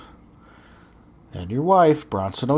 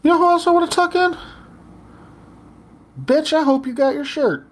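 high, loud, fast call-out; 14 semitones higher, 3 dB louder than usual. Acted. Host calls out a listener about her shirt, loud and high. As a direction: shout it at her across the room.

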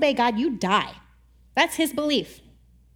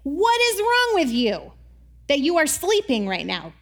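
mock scream; 2 semitones higher than usual. Captain waking Jonah, mock scream in his face. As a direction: yell it like a furious captain. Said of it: "the captain screaming in his face".

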